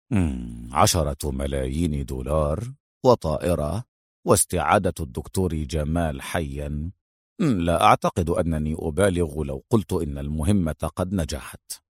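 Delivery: low, understated satisfaction with a smile; said smiling. A narrator's reading. Adham sums up his successful mission, smiling and low. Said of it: "وهو يقول باسما".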